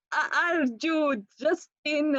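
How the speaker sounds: slow, stammering nervous English with a trembling voice. Retold or imitated. Shy fan asking the guitarist his name, voice trembling with nerves. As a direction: force the words out while nerves make the voice tremble. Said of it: "Así como nerviosa, temblando, me temblaba la voz".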